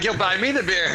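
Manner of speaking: playful bossy tease; cheeky demand. Retold or imitated. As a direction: toss it off like he expects a free beer. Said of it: "you're like".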